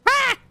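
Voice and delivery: shrieked ah of pain; high yelp. Pretend. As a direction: yelp as if burned. Pained yelp.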